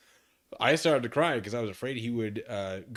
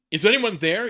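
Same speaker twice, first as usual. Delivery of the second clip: loud, higher yell; 9 semitones higher, 10 dB louder than usual. Acted. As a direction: call out into the dark. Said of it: "yelled Mister Norris".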